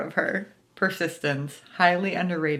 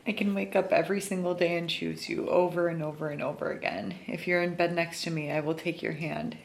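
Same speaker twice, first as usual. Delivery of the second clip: tender reading. Acted. Reads romantic passage aloud.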